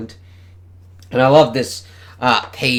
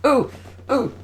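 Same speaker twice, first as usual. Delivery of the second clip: much higher, louder oohs; excited oohs; 7 dB louder than usual. Real, not acted. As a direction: coo with anticipation. Excited at upcoming page.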